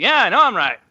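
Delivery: a hint of the comic's folksy delivery; Norm Macdonald. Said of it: "you're right, Norm".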